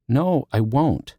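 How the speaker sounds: a mild tearful protest; breath hitching. Acted. Libby, upset on the phone to Justin, tearful and slow. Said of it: "breath hitching".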